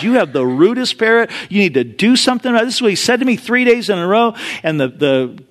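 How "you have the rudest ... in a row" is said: mildly indignant retold complaint; slightly raised, quicker mock grievance. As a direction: lightly act out an offended customer. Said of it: "complains and says".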